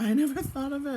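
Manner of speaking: laughing at herself. Real, not acted. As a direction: chuckle through the words.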